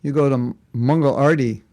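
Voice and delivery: Mangal Arti in a light mock New Zealand accent; a playful New Zealand twist on Mangal Arti; teasing New Zealand accent, barely put on. Shown as a demonstration. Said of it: "If you're from New Zealand".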